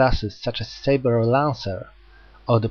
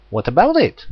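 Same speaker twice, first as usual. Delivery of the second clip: higher, louder wary challenge; defensive retort; 5 semitones higher, 5 dB louder than usual. Acted. Hyoma answering Jack, tense and defensive. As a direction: snap back on guard.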